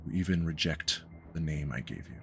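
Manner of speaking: understated, weary disapproval; quiet disappointment. Acted. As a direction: say it like a let-down father. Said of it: "shakes his head and says".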